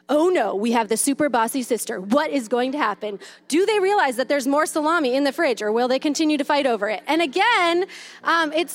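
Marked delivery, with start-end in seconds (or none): 0.1-7.0 lightly voiced sports commentator, louder. Mom narrates her kids' squabble like a light TV commentator. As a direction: narrate the fight like live TV. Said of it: "a T V commentator".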